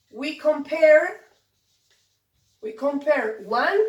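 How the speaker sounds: slow teacher model. Shown as a demonstration. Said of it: "teacher models the phrase".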